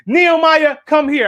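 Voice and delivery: the teacher summons him; teacher calling. Retold or imitated. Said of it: "It's Miss Johnson".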